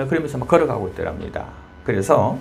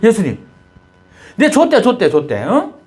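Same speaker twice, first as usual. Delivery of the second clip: high, louder plea, hurt and accusing; accusing complaint; 8 semitones higher, 4 dB louder than usual. Retold or imitated. Young man confronting Jesus in his dream, high indignant protest. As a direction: demand to know where Jesus went. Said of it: "그 예수님이 따졌답니다".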